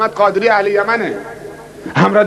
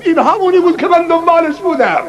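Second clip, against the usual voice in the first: excited discovery; 8 semitones higher than usual. Retold or imitated. Convert's moment of discovery.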